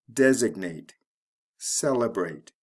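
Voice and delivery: DES-ignate, CEL-ebrate, one word at a time; third-from-last stress. Shown as a demonstration. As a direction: stress the first syllable of designate and celebrate. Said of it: "the third syllable from the end".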